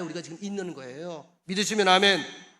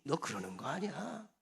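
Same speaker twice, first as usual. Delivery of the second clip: God's subdued reproach; 3 semitones lower, 5 dB quieter than usual. Retold or imitated. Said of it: "하나님께서 내게 그러더라고요".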